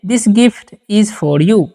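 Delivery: each word spaced out slowly for students; slow dictation. Shown as a demonstration. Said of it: "जैसे में". (धीमे-धीमे बोलकर लिखवाना)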